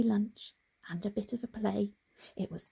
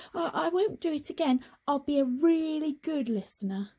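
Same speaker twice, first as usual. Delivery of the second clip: eager little frog; 6 semitones higher than usual. Acted. Frog promising, higher.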